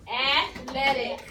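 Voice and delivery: ATHLETIC drawn out slowly, broken into its syllables; slow, loud, segmented "Athletic" for a class. Shown as a demonstration. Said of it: "It takes three breaths to say athletic".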